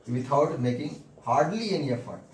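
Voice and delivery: very slow, word by word, for students to write; slow dictation. Shown as a demonstration. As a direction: dictate it slowly, each word apart. Teacher dictating corrected sentence. (धीरे-धीरे बोलकर लिखवाना)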